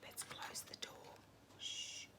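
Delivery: very soft, slow whisper ending in a shush; hushing whisper. Acted. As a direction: hush the kids so the bear sleeps. Bear asleep, closing the door.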